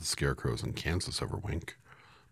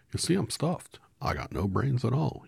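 sad Scarecrow; 10 semitones higher, 6 dB louder than usual. A narrator's reading. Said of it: "he answered sadly".

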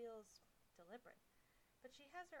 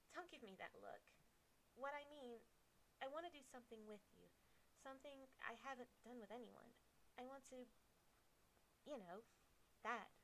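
nervous hesitant; 4 semitones higher than usual. Acted. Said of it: "She can barely get the words out".

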